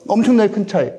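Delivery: ordinary delivery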